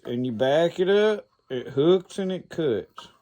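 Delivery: spelling out each step; slow step-by-step demo. Shown as a demonstration. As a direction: talk it through slowly. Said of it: "hook that right under there".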